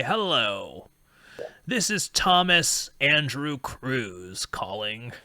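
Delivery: grand self-introduction. Retold or imitated. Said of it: "you never have the person say".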